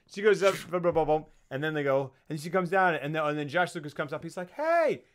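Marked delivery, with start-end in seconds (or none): 4.5-5.0 high, loud hey; hammed-up startled holler; mock calling out. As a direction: call out sharply, pitched way up. Acting out character calling out.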